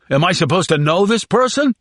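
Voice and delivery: high, nervous and dismissive; whiny prisoner voice. Acted. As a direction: play it scared but defiant.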